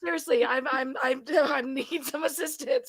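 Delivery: exaggeratedly polite help request; mock polite request.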